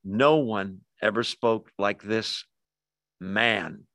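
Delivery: slow, measured reading landing on a separate "man"; emphasis on man. Shown as a demonstration. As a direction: pause before "man", then set it apart. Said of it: "it would be read like this".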